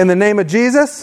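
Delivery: firm, projected declaration; like you mean it. Shown as a demonstration. Preacher leads congregation in declarations against worry, firm and meaning it. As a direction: declare it with conviction for a crowd to repeat. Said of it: "say it like you mean it".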